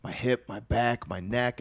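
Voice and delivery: fretting under your breath; anxious inner voice. Retold or imitated. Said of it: "I'm like".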